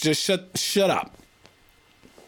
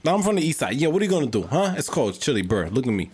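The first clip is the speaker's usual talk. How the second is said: put-on tough-guy Boston accent; 5 semitones lower than usual. Squaring up to a friend, Boston accent. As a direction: challenge them in Boston street talk. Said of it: "You sound like a rapper".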